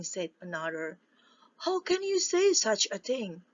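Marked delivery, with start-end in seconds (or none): 1.6-3.4 high, stern scolding; mama duck scolding her ducklings, stern. Acted. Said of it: "said Mamma Duck in a stern voice".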